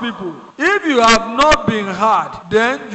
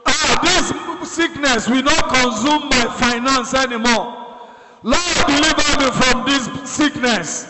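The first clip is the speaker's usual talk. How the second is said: prayer of deliverance; 3 semitones higher than usual. Shown as a demonstration. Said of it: "Say to God".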